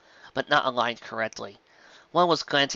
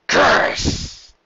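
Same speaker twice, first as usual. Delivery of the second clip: curse; 7 semitones lower, 8 dB louder than usual. Acted. Sudden outburst.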